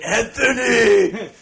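long, high hammed-up scream of a name; drawn-out comic wail, loud and high; mock scream. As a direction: scream it out mid-agony, played for laughs. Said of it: "You're screaming as you shit".

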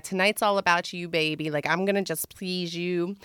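soft, lightly seductive promise; retold pillow talk, hushed; sensual. Recalling a promise to a blindfolded lover, softly sensual. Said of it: "it was super sensual and super dirty".

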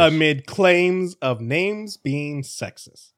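very slow headline reading. Real, not acted. Host finishes re-reading the headline, very slowly. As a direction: stretch each word out for the listener. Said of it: "do that again a little slower".

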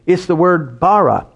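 says bara as BAH-rah, Hebrew word. Shown as a demonstration. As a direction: pronounce bara with open a sounds. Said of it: "That word create".

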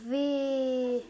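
slow, pained, burning mouth; mouth burning from spicy food. Real, not acted. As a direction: drag it out through the burn. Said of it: "das tut so weh".

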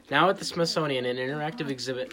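put-on card read in a Boston accent; Boston accent, hamming up the card. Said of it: "they're doing it in their Boston accent".

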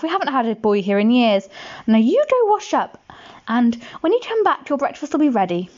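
put-on hurried, fretful housewife hiding a boy; a hint of a fussing woman; giant's wife.

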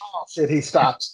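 high excited play-by-play; mock announcer losing it over the cat; frantic mock sports commentary. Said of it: "commentating on the cat".

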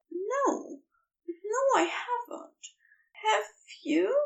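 high, breathless angel whisper; whispered high Aziraphale admitting innocence; shy whisper. A narrator's reading. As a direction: confess it in a hushed high whisper. Shy confession between the two.

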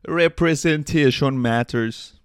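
joking booming announcement; mock proclamation. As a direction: declaim it grandly, word by word. Declaims a jokey slogan, then laughs.

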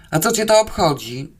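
mildly irritated retort; angry snarl. Acted. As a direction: snap back with slight annoyance. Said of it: "warknęłam gniewnie". (lekko gniewne warknięcie)

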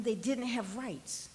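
soft, low and slow; hushed, sober statement. Real, not acted. Preacher on children in Jesus' time, hushed and sober. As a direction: let it land quietly on the congregation.

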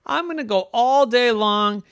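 squeaky high panicked inner voice; worried little girl. A narrator's reading. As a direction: fret fast like a child sure she'll be forgotten. Yvette's inner worry voiced.

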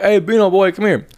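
put-on Bino boy called out high and teasing. Shown as a demonstration. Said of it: "it's the inflection in your voice".

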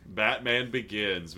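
low, slow Batman growl; low gravel vigilante growl. Retold or imitated. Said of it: "least gravelly voice version".

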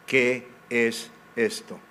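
slow, drawn-out puzzled question; puzzled wonder. Retold or imitated. The Israelites puzzling over the manna, slow and wondering. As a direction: ask it slowly, stretching the qué in wonder. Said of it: "se dijeron unos a otros".

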